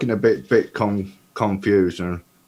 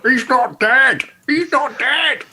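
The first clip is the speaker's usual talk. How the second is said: much higher frantic cry; panicked Studley; 7 dB louder than usual. Acted. Studley telling Ida the corpse lives, a frantic high cry. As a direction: insist in a panic. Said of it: "Studley go".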